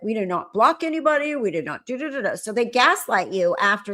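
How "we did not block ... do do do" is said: high, sing-song mocking; mocking denial. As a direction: parrot their denial. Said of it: "They're like".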